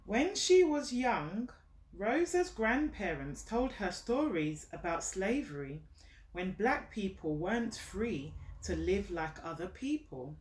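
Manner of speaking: slow, gentle storybook reading, each phrase set apart; reading to a child. Acted. Mother reading a picture book to her child, gentle storytelling. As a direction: read it out like a bedtime story for a little one.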